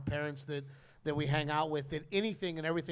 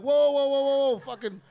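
high, loud string of whoas, laughing; mock panicked yell; 8 semitones higher, 9 dB louder than usual. Comedian hams up begging the runner to chill, loud and laughing. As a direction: plead loudly, cracking up.

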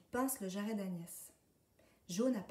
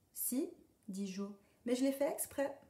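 cheeky duckling; 5 semitones higher than usual. A narrator's reading. Duck boasts he did it on purpose.

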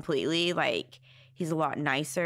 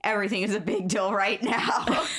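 mock furious threat; 2 semitones lower than usual. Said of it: "like, straight".

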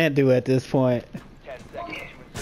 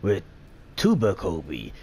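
movie voice. Pretend. Gamer introducing the squad's Rainbow Six montage, movie voice. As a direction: announce the lineup like a movie voiceover. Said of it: "movie voice".

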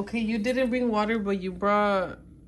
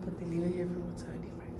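whispered complaint; 3 semitones lower, 6 dB quieter, faster than usual. Real, not acted. Complaining about hotel water.

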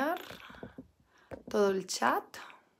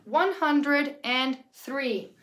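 whole number, slowly; much slower than usual. Shown as a demonstration. Teacher repeating the number for students, slow and connected. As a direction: say the full number in one slow run.

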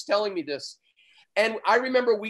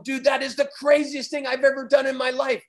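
a touch higher, hyped-up retelling; amazed exclamation; 5 semitones higher than usual. Retold or imitated. Survivor telling the driver it was his craziest ride, mildly hyped. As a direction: mildly relive the thrill. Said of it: "And I just told him".

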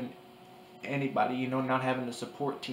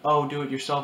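mocking quote; 2 semitones higher, 8 dB louder than usual. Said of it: "people are like".

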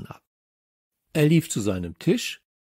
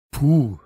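loud puff of relief; huffed "phew"; 2 semitones higher, 7 dB louder than usual. Acted. Samson, just past the playground watch, huffing loudly. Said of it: "schnaufte Samson".

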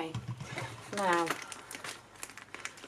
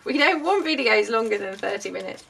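mock audience voice; 3 semitones higher, 6 dB louder than usual. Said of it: "I hear you all shout".

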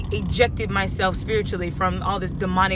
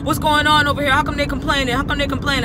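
mock angry manager; 3 semitones higher, faster than usual. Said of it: "get in my face and say".

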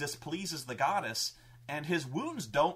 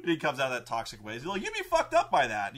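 ordinary delivery

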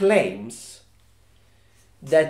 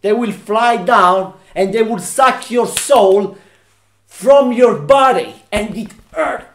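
dramatic horror tale; 3 semitones higher, 5 dB louder than usual. Acted. Dramatic tale of soul-sucking Dementors.

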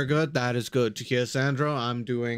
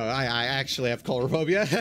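laughing. Real, not acted. Joking claim while laughing.

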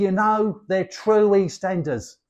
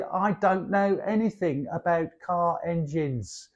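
softer, more careful delivery; correct English grammar; 4 dB quieter than usual. Shown as a demonstration. Teacher giving the standard grammar version, softer and careful. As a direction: carefully model the textbook sentence. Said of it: "you should say".

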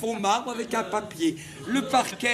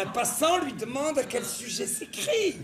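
slight irritation; 4 semitones higher than usual. Shown as a demonstration. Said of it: "Il faut une légère irritation".

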